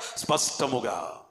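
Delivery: slow, low "స్పష్టముగా", syllables stretched out; clear, deliberate. Shown as a demonstration. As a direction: spell out "స్పష్టముగా" slowly for the congregation. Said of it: "ఎట్లా చెప్పాలంట?".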